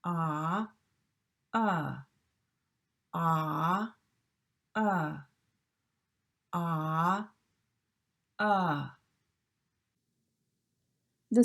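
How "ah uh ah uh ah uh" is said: "Ah" jaw wide open, then "uh" with the jaw half closed; ah then uh contrast. Shown as a demonstration. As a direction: alternate "Ah" and "uh", jaw halfway up for "uh". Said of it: "bring your jaw up halfway from ah to uh".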